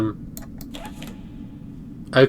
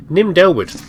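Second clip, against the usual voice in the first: mock eulogy. Mock funeral address to corpse.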